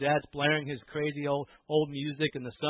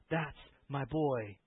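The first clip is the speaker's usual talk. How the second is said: tender; 2 semitones lower, 5 dB quieter, much slower than usual. Acted. Tender close after the shouting.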